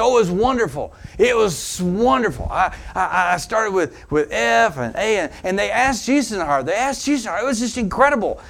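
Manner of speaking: high, bright rush of delight; retelling a shy woman bursting with joy; gushing excitement. Retold or imitated. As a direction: gush about the visit, thrilled. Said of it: "she was so excited".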